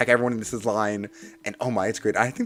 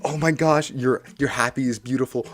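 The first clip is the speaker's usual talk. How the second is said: higher-pitched, excited fan gushing; gushing compliments; 3 semitones higher than usual. Retold or imitated. Fans complimenting each other's outfits, gushing excitement. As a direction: pile on the admiration eagerly.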